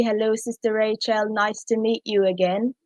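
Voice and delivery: British-accented formal greeting; lightly performed British English. Shown as a demonstration. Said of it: "start it out in the British accent".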